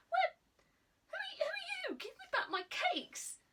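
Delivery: high, panicky demand; flustered outburst. A narrator's reading. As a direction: stumble over words in shock. Boy confronting cake thief.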